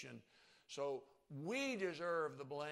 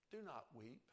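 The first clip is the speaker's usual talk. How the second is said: quiet, gentle Do not weep; hushed and tender; Jesus' words; 6 dB quieter than usual. Acted. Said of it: "seem somewhat empty when He says".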